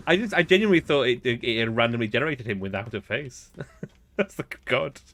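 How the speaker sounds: loud, high, through real laughter; laughing. Real, not acted. Player explaining the faceless alien mistake, laughing. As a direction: struggle to explain while cracking up. Laughing over the missing face.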